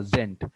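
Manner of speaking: "zent" as the stressed end of pri-ZENT; stress on second syllable. Shown as a demonstration. Teacher showing second-part stress, "zent" given full weight. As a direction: land firmly on "zent". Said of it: "the stress will be here".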